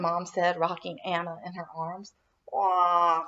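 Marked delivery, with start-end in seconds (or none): 2.5-3.2 put-on baby wail. A narrator's reading. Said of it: "cried baby cousin Joshua".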